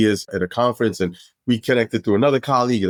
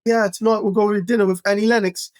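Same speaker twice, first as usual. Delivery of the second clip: much higher offhand plan; casual name-drop; 11 semitones higher than usual. Retold or imitated. Dave casually naming dinner plans, high nonchalant voice. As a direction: list stars like errands. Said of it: "He's like".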